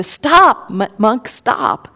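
high loud yell after the monk; yelling stop. Retold or imitated. Bandit yells at the monk to stop, loud shout. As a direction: shout it after someone walking away. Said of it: "he yells to the Buddha".

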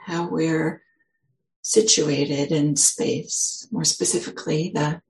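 unhurried, gentle guiding with long pauses; guided meditation. Real, not acted. Teacher leading the group into settling with a big exhale, guided meditation. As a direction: ease listeners into settling, leaving long silences.

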